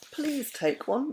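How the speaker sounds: courteous, careful offering to a dragon; politely. A narrator's reading. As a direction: offer it kindly and gently. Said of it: "Mister Wumble said politely".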